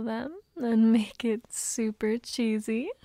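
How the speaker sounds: intimate whispered roleplay throughout. Acted. Mommy soothing her sleepy boy, whispered. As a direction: whisper close and tender to a sleepy partner.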